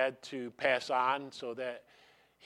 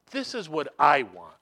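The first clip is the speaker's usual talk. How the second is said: emphatic repeat; 8 dB louder than usual. Real, not acted. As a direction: punch "this" louder and firmer.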